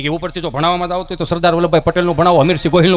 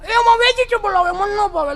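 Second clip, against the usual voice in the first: much higher, louder bratty whine; whiny spoiled kid; 12 semitones higher, 4 dB louder than usual. Acted. Spoiled son refuses the Maggi his mother offers, whining high. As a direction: whine like a fussy child refusing.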